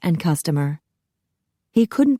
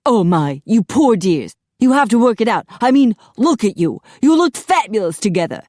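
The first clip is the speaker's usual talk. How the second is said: louder, higher theatrical sympathy; gushing stylist; 5 semitones higher, 5 dB louder than usual. A narrator's reading. Apollo urges the couple to reconcile, gushing sympathy. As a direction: fuss over them with effusive concern.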